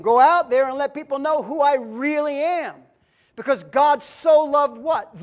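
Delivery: emphatic sermon delivery, key words punched; forceful preaching. Real, not acted. Preacher urging the congregation to believe and obey, forceful. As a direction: drive each point home to the congregation.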